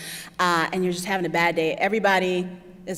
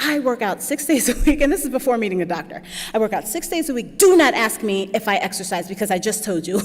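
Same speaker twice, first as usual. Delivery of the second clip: angry; 2 semitones higher, 5 dB louder than usual. Retold or imitated. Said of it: "it was really angry, really forward".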